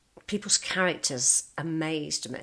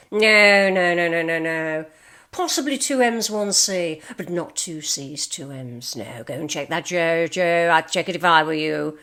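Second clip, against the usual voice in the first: loud, emphatic no's that settle down; insistent correcting; 6 dB louder than usual. Retold or imitated. Boss overrules Joe on spelling, loud and insistent. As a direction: hammer the no's at Joe, then ease off.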